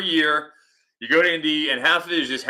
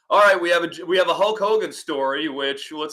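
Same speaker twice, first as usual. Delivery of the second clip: lightly imitated fast-talker, pitched up; Jim Cornette; 4 semitones higher than usual. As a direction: launch into a hint of his act. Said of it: "Everybody wants to be Jim".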